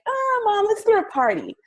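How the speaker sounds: put-on high pleading kid voice; younger self begging. Younger self begging mom for a party, high pleading. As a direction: whine it like a teenager. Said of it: "So I would be more like".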